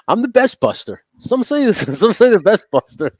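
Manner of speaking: high, loud, laughing Trump brag; Trump impression. Mock Trump bragging.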